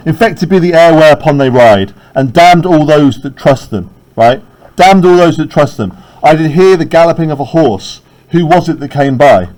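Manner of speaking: loud, forceful reading; declaiming Macbeth. Acted. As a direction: curse the air with force. Reading Macbeth aloud, louder.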